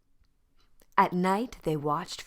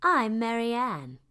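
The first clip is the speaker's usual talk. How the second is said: duck voice; 7 semitones higher, 6 dB louder than usual. A narrator's reading. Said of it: "said the duck".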